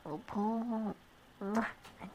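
breathy whisper, very soft and slow; a slow, near-silent whisper of devotion; whispered love. Acted. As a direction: murmur it right in their ear.

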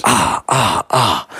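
short, separate "ah" calls; clipped-off test vowels; frequency test. Retold or imitated. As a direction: sound out test ahs at a wall. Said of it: "testing it with different frequencies".

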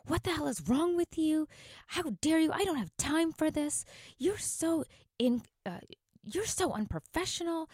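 high, loud, outraged berating; imitating a furious yell. Customer screaming at the teenage cashier over the card, mock fury. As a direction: shriek it at the young cashier. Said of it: "She started yelling at me and berating me like".

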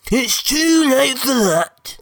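slow, high defiant brute; dopey brute voice. Acted. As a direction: drag it out, high and final. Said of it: "said Plank".

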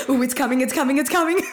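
high and loud, laughing as she says it; mock panic about crying. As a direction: sound like the tears are about to burst out any second. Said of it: "I'm like".

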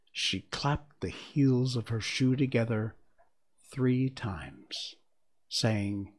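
measured, expressive storybook reading; story narration. A narrator's reading. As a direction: read the tale aloud, pausing between phrases. Reads the story aloud.

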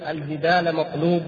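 ordinary talk

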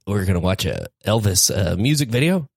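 playing both parts. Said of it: "He's doing both voices".

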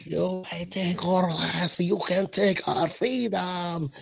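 slow, hammed-up Braveheart Scottish accent; drawn-out, badly faked Scots battle cry. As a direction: do a terrible Scottish Braveheart speech slowly. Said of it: "I'm terrible. That's Mexican, definitely".

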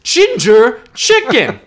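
high, slow, laughing put-on voice; laughing mock voice. The speaker mocking dad's dinner, high and laughing. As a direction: draw it out high through a laugh.

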